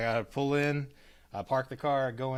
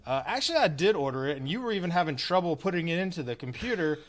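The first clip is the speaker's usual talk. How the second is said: retold annoyed rebuttal, higher pitched; mad retort; 4 semitones higher, 3 dB louder than usual. Customer answering the drive-thru girl, mad and insistent. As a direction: push back indignantly, leaning on "did". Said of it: "so now I'm mad".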